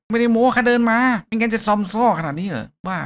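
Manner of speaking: high, loud, put-on kid voice; indignant kid. Kid insists to the hero he walked, high loud child voice. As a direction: protest like an offended child.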